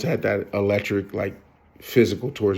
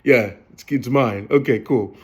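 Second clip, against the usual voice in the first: amused disbelief. Retold or imitated. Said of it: "I started laughing".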